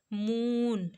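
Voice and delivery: मून drawn out on the "oo"; slow demonstration of long oo in मून; long vowel. Shown as a demonstration. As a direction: hold the middle of मून. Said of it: "long sound based".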